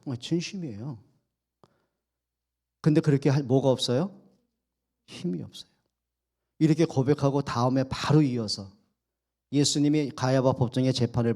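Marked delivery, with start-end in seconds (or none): 5.1-5.7 soft, dropped almost to a murmur; quiet admission. Acted. Preacher to congregation, hushed and soft. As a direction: let the words sink, hushed. Preacher stresses Peter's weakness.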